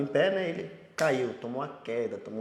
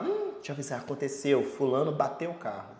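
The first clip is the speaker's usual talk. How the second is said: confiding gossip. Acted. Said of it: "Aí vai falar".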